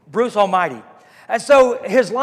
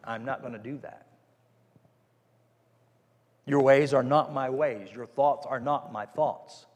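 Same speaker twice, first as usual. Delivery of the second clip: quiet calm refusal; 6 semitones lower, 6 dB quieter than usual. Retold or imitated. Jesus calmly refusing the crowd, low and soft. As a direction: turn them down gently.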